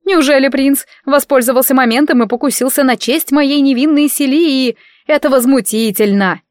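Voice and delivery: indignant wailing. Acted. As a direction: proclaim the scandal. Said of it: "Загласила ещё громче".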